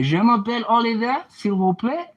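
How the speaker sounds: a mock tourist reciting his only French; clueless tourist. Walking into a bar abroad, cheery mock tourist voice. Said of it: "I say".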